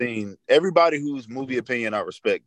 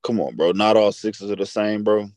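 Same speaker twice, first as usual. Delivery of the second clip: soft, gentle put-on voice; 2 semitones lower than usual. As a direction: coax it like being nice. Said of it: "You sound like a female trying to be nice".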